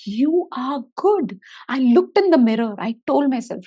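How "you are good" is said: slow, breathy whisper of self-affirmation; tender whispered affirmation. Retold or imitated. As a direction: whisper it slowly to yourself.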